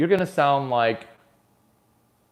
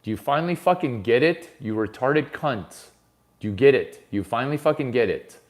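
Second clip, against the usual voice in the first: mock berating. Berating the audience.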